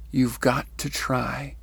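slow, deliberate, calm repetition. Retold or imitated. Messenger's lesson to her repeated, very calmly. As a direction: let each phrase settle calmly. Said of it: "He says very calmly".

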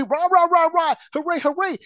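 sarcastic hooray that snaps into an exasperated "come on"; mock cheering. Mocking cheering for Elon Musk.

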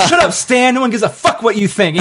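high, half-sung mock brush-off; retold Deadpool line. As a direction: dismiss him in a sing-song. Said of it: "He's like".

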